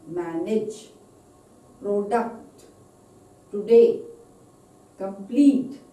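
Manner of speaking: single words with clear stressed syllables, spaced out; "today" and "complete" punched loud on the last syllable; word stress demo. Shown as a demonstration. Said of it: "where the stress is".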